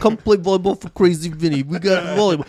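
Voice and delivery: high, loud Brooklyn Italian huckster; Italian-Brooklyn accent. Acted. Host as Crazy Vinny pitching volleyball to parents, hammed-up Italian-Brooklyn accent. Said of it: "why are you doing that accent".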